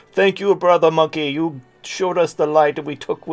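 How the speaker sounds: put-on Jamaican accent. Imagining a Taliban member reaching out to thank the speaker, in a Jamaican accent. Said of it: "my Taliban is a Jamaican accent".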